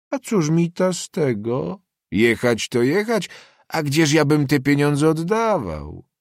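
high, drawn-out peasant grumbling; indignant protest. Acted. Peasant haggling over coins with the student, indignant. Peasant argues against paying back.

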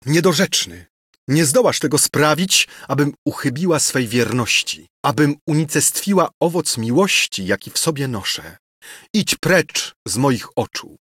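spurn him with disgust; indignant high cry of refusal; horror and contempt. Acted. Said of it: "odpychając go ze zgrozą i pogardą".

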